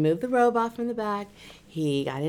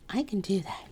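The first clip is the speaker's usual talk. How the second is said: whisper; 5 dB quieter than usual. Retold or imitated. Client answers quietly.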